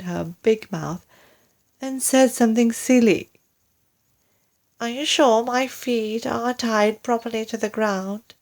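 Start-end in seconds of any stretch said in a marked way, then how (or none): 4.8-8.3 gasped. Acted. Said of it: "she gasped".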